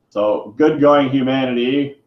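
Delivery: slow, sarcastic mock praise. Real, not acted. Ranting vlogger mocks humanity with slow sarcasm. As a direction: drag out the fake congratulations slowly.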